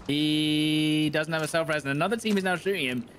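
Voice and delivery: lightly put-on reporter's running commentary; mock news commentary.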